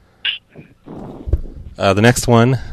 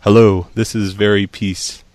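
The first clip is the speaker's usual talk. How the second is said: slow reading; slower than usual. Shown as a demonstration. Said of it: "Austrian accent should be their hint".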